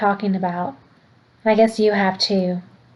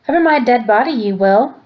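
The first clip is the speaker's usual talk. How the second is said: mild yell; 2 semitones higher than usual. Acted. Grandmother upstairs refusing her husband, understated yell. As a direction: push back hard but keep it contained. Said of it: "That's him yelling".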